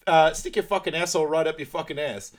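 high, loud furious yell; mock furious yell. Guy telling off the couple, furious yell. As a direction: scream the insult. Character screaming insult.

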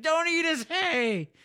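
high, slow mock wife wail; high pleading wife. Wife begs husband not to eat the hay, high mock wail.

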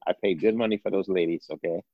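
lightly put-on old Texan team-owner accent; a playful hint of a Texan accent as the old owner; mock Texan accent, scolding his son; Jerry Jones accent. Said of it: "Corey wins 'cause he did the accent".

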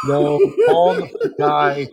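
high, loud urgent no; a real alarmed no; urgent shout. Real, not acted. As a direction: stop him in his tracks. Urgent objection.

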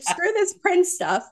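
high, slow words through laughter; cracking up while voicing the cat; laughing. Retelling the cat's scornful line, laughing.

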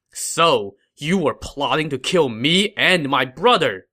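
angry. Acted. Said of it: "he said angrily".

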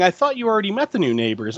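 imitating a kid's accusation, high and quick; quick retold gotcha; calling her out. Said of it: "Timmy calls her out, saying".

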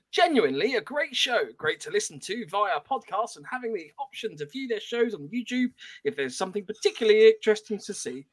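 put-on reading out a review in a mild English accent; light English accent. Host reads listener review to the chat in a light English accent. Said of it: "Les came in with English".

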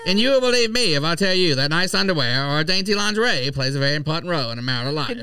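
1940s voice. Acted. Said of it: "That's my nineteen forties voice".

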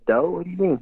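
a sudden, baffled "what do you mean"; startled question. Retold or imitated.

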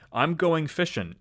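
put-on lightly Southern-accented, drawn-out reading. Host accidentally reads Simon Peter's line in a Southern accent. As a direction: read it slowly with a Southern twang. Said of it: "I don't think he had a southern accent".

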